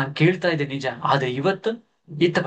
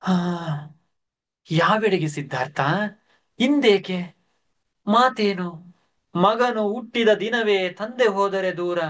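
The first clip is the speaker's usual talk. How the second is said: higher, astonished questions; surprised; 4 semitones higher than usual. Acted. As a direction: react in disbelief. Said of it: "ಆಶ್ಚರ್ಯದಿಂದ ಚೆನ್ನ". (ಆಶ್ಚರ್ಯದ ದನಿ)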